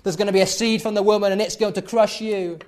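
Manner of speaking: passionate words. Acted. God, indignant, rebukes the serpent in a fast, loud outburst. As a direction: hurl it at the serpent in the heat of the moment. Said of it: "he speaks these passionate words".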